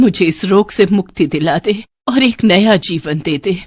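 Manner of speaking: put-on ailing old woman pleading for relief; suffering old woman. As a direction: beg the girl to end your misery. (पीड़ित बुढ़िया की विनती)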